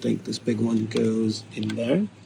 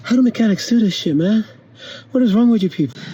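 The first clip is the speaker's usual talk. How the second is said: higher, louder exasperated complaint; exasperated rant; 8 semitones higher, 4 dB louder than usual. Real, not acted. A man tells viewers the repair is hard, exasperated rant. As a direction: vent at every mechanic out there.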